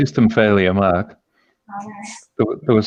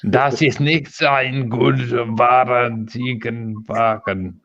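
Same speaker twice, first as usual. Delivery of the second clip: mock German, slightly raised and drawn out; German accent; slower than usual. Shown as a demonstration. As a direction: put on a German accent for show. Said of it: "I wanna hear German".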